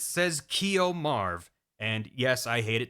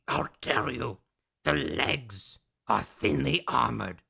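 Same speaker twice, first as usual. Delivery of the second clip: put-on much lower, slow, solemn old man; low grave advice; 6 semitones lower, slower than usual. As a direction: deliver the secret in a deep, dramatic hush. Madnar gives grave secret.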